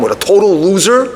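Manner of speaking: mock angry complaint; venting to dad. Daughter scolding her father over the date, irritated. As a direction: lay into him, starting to heat up. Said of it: "she lets him have it".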